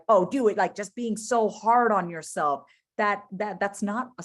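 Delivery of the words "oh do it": mock harsh push, louder; imitating a harsh inner voice; harsh self-talk. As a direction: snap at yourself like a drill sergeant. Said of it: "being harsh with yourself".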